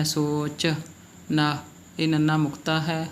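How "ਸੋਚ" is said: ਸੋਚ with long o and released ch; short final i. Shown as a demonstration. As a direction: add a tiny vowel after ch in ਸੋਚ. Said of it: "ਚਿੱਚੇ ਦੀ ਸਿਹਾਰੀ ਬੋਲਣੀ ਹੈ".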